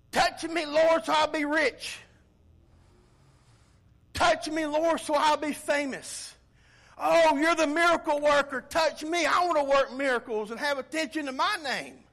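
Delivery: loud, high-pitched mock plea; lightly put-on eager beggar for favors; showy petitioner. Crowd member begging Jesus for fame and riches, showy plea.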